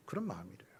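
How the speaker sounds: ordinary delivery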